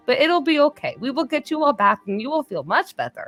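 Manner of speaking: cheery Grendel voice. Acted. Grendel comforts hungover William, lightly sweet fussing. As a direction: fuss over a grumpy friend. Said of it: "she's just like".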